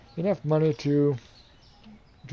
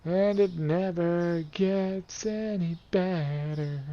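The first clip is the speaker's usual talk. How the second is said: slow, higher words stretched by a yawn; yawning while talking; 5 semitones higher, much slower than usual. Real, not acted. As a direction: talk through a big yawn. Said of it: "I keep yawning".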